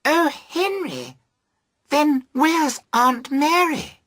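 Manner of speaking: put-on high, slow, wailing young woman; panicked young woman's high-pitched cry; cried wildly. A narrator's reading. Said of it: "the young woman cried wildly".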